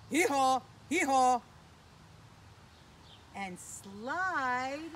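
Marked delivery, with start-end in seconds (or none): 0.1-1.4 loud hee-haw bray; donkey bray. Retold or imitated. Kids' host braying like a donkey for children.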